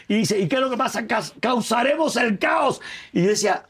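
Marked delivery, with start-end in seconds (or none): 0.4-2.8 mock plotter. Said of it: "perdonen que no sea el acento".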